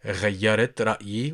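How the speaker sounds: غيرت رأيي run together fast; quick natural take. Shown as a demonstration. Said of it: "you roll your tongue".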